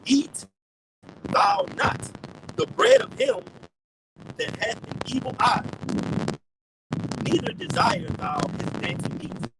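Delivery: loud, declaimed verse in measured phrases; scripture reading. Real, not acted. Preacher reads Proverbs to the listeners, declaimed scripture reading. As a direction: proclaim the verse, pausing between phrases.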